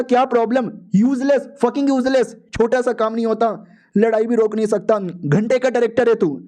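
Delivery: angry scolding. Acted. Dean scolds the director. (गुस्से में डांटना)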